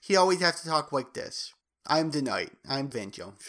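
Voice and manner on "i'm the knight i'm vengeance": put-on baby voice. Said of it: "talk in a baby voice".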